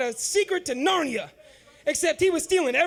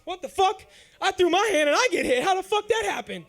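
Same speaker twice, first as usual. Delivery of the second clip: louder, higher baffled yelling; stunned outrage; 4 semitones higher, 5 dB louder than usual. Retold or imitated. Teen boxer stunned by his uncle's punch, outraged. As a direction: disbelief at being hit. Retelling getting hit, outraged.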